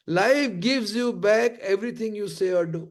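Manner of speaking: said slowly, each word weighed; slow emphatic maxim. Shown as a demonstration. Trainer giving his audience the life lesson, slowly. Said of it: "slow emphatic maxim".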